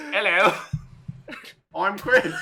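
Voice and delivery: badly faked British accent; attempted British accent. Co-host introducing himself, failing at a British accent. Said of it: "I can't do the accent on purpose".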